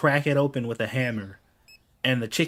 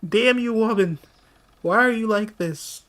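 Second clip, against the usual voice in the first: high, loud, hammed-up cry of despair; theatrical wail of frustration; mock exasperated yell; 10 semitones higher, 5 dB louder than usual. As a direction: throw up your hands at the wife, loud and high. Mock outburst at wife.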